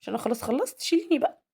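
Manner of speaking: a hint of a whiny toddler begging to be picked up; voicing the little son. Mother voicing her son begging to be picked up, mildly whiny. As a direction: plead lightly in a child's voice. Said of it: "بص يقول لي".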